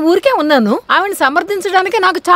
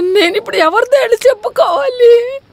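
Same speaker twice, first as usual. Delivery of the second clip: mock crying. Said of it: "ఎందుకే ఇప్పుడు ఏడుస్తున్నావు?".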